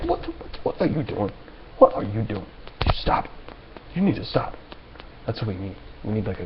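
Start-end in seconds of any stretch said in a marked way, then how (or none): 0.1-4.5 scolding mother. Retold or imitated. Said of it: "a strong maternal figure".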